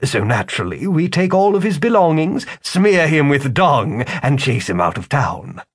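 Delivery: high, mocking wizard; a smug con man, amused. Wizard speaks.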